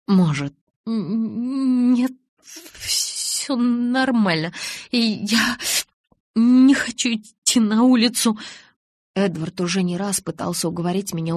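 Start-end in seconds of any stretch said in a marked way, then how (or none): 0.1-1.9 slow, trembling voice, teeth chattering; shivering from cold. A narrator's reading. Bella freezing in the tent, shivering as she speaks. 1.9-4.5 slow, shaking, higher voice; shivering reassurance. A narrator's reading. Bella tells Edward she's fine, freezing. 4.9-8.4 slow, trembling voice, teeth chattering; shivering from cold. A narrator's reading. Bella freezing in the tent, shivering as she speaks.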